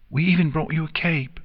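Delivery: high, chirpy filly voice; chirping. A narrator's reading. Filly presents a cape to her friend, high chirp. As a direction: chirp it brightly, pitched well up. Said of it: "Sweetie Belle chirped".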